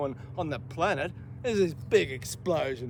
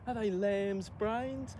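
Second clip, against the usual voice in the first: retold indignant rant, rising higher and louder; angry retort; 4 semitones higher, 5 dB louder than usual. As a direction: build into a mocking tirade, pitched up. Raging retort to his captors' question.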